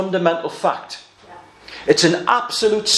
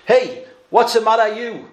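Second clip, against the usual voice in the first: mock pidgin English taxi driver, a bit higher; playful pidgin English quarrel quote; 5 semitones higher than usual. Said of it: "in the kind of pidgin English".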